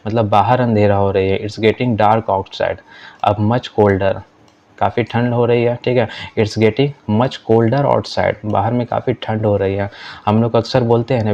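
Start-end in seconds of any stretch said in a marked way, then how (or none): 1.4-2.8 slow, careful classroom English; deliberate teacher read-aloud; slow model reading. Shown as a demonstration. Teacher reads model sentence. 6.4-8.3 slow, careful classroom English; deliberate teacher read-aloud; slow model reading. Shown as a demonstration. Teacher reads model sentence.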